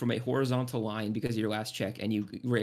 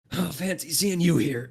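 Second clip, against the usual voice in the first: higher, louder in-character hello; put-on cheery surprise at meeting someone; acted greeting; 6 semitones higher, 5 dB louder than usual. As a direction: greet them as the climber hauling himself up. Climber greets those at the top.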